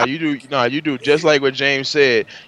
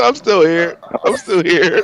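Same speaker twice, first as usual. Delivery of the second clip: slightly higher put-on echo; mimicking the caller; 4 semitones higher, slower than usual. Teasing a caller who kept repeating himself, lightly mimicked. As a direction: parrot it back in a mock voice.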